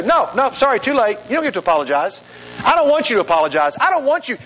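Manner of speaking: mildly indignant, pitch jumping at the refusals; retold anger. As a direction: act out an angry refusal, half in earnest. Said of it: "I found myself getting so angry".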